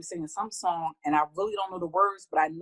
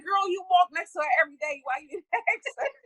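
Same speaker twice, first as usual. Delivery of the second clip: sassy retort; 13 semitones higher, 4 dB louder than usual. Retold or imitated. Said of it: "I'm like".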